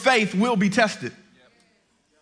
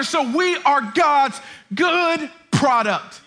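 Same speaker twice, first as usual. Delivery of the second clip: insistent preaching that climbs higher; impassioned preaching; 4 semitones higher than usual. Acted. Preacher telling listeners God has a purpose, impassioned preaching. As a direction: build to a fervent declaration from the pulpit.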